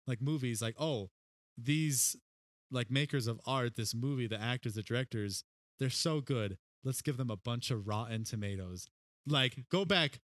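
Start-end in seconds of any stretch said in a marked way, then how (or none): 0.8-8.9 measured, approving reviewer; understated praise, unhurried, with small pauses; mild admiration. Acted. Modern critic praising actors and directors, mildly admiring. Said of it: "now it uplifts artists".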